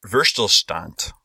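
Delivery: Verstillstand said slowly, syllable by syllable; careful German word. Shown as a demonstration. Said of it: "I gotta practice one more time".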